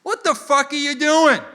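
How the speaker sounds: high, loud outraged cop; quick high-pitched mock fury; imitated angry cop. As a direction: storm up yelling as a cop. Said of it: "he storms up to my car".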